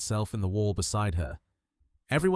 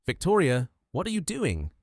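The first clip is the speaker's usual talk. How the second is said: put-on old man's cracking voice; 7 semitones higher than usual. A narrator's reading. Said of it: "voice cracked with confusion and age".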